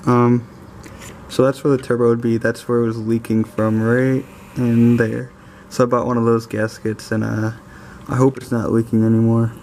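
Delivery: talking while lying on your back; lying under a car. Real, not acted. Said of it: "so I'm under the car now".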